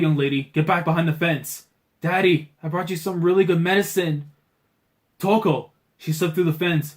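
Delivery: lightly acted shouting guards; mock guard shouting. Guards yelling at the girl to come back, mild mock shouting. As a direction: call out like alarmed soldiers.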